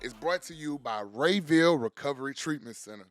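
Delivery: upbeat radio ad voice; ad read. Acted. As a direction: sell it like a sponsor spot. Reads sponsor ad.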